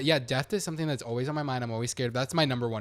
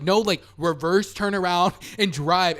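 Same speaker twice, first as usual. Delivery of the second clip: louder, urgent instructions to a driver; retold yelling; 4 semitones higher, 5 dB louder than usual. Storyteller replays yelling at her friend to drive, raised voice. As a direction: push it out like yelling at a frozen driver. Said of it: "yelling at her at this point".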